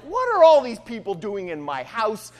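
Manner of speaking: acted, indignant outburst; upset. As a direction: voice Odysseus upset at the intruders. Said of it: "And he's really upset".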